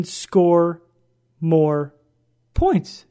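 each word set apart with pauses; stressed slogan. Shown as a demonstration.

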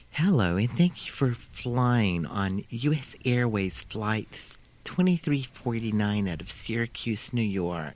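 put-on flight attendant's lisping New York accent; slow safety announcement in laboured New York accent; thickest New York accent. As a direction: imitate a New York accent, slightly lisped. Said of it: "I'm gonna imitate her".

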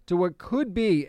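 "could" punched with a rise in pitch; "could" stressed as a caveat. Real, not acted. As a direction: lean hard on the word "could". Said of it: "I emphasize the word could".

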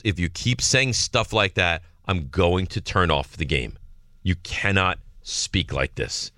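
slow, low, measured reprimand; retold stern warning. Wife warning their son over his game talk, slow stern retelling. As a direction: lay down the law slowly, word by word. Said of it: "She goes".

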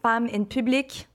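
put-on Femme in Public in a French Canadian accent. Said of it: "which I'm saying with my French Canadian accent".

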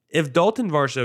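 talking with a hair caught in the mouth. Real, not acted. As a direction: say it with a hair stuck on the tongue. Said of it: "I had a little hair in my mouth".

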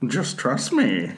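low, slow squid voice; deep slow sea creature. Acted. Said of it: "that is exactly how a squid would speak".

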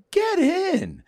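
high, clipped command in a put-on voice; a put-on voice ordering him into the car; mock tough driver. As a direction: bark it like a cool guy in a car. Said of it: "he goes".

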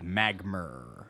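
magmer said as a lightly put-on British magma; British accent. Shown as a demonstration. Demoing the British-accent segment, a light British magmer. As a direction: drop the final A into an -er like a Brit. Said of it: "we say them with a British accent".

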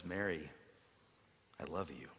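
Jesus speaking softly to Mary; tender. Acted. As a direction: say it gently, just to her.

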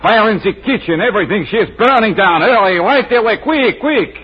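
hammed-up French chef on the phone; phony French accent. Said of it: "my phony French accent".

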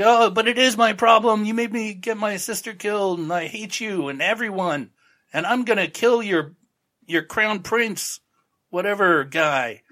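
high, hammed-up furious rant; mock angry rant. Frank mocked, ranting at the inspector in a high angry whine. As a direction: whine out the revenge vow, overdone. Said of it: "And he's like".

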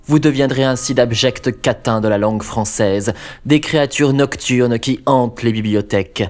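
a hint of a gloating vampire; menacing vampire host. Vampire host greets viewers.

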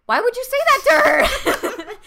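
high, laughing, indignant; defensive laughing quote. Retold or imitated. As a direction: demand it with a laugh, defending a friend. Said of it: "I would just be like".

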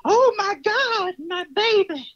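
hammed-up distraught mother; mock wail. Quoting a Netflix show character.

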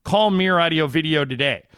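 upbeat radio ad read. Acted. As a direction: sell it like a live spot. Host reads live sponsor ad.

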